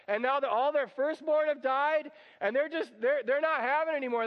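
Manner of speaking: ordinary delivery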